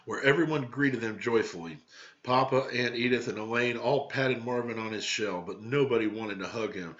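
lively read-aloud storytelling; story narration. A narrator's reading. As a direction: read it to the class like a picture book.

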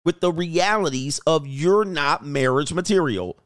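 ordinary talk

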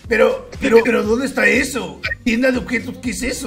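lightly put-on grandpa voice; trolling as a frail old grandpa; very old man. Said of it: "haciendo la puta voz de viejo".

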